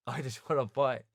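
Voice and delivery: laughing while insisting on the fight; laughing insistence. Retold or imitated. Twelve-year-old begging the boxing coach, laughing. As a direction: repeat it through a laugh, eager.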